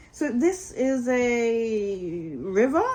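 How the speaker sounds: slow, lightly voiced wonder; wondering Mole. Mole asks Rat in slow, light wonder. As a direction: marvel at it slowly.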